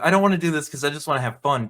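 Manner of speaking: quick, carefree brat whine; mock fun-loving kid. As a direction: rattle it off like a kid who only wants fun. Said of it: "they skip out the fun-loving".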